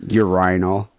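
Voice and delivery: "Urinal" as yur-RYE-nal, stress on the second syllable; host copying the English caller's word; British pronunciation. Retold or imitated. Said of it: "I'm gonna start saying that right now".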